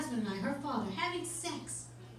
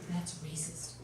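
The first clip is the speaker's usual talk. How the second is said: whispered; 11 semitones lower, 9 dB quieter, slower than usual. Retold or imitated. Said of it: "She whispers in my ear".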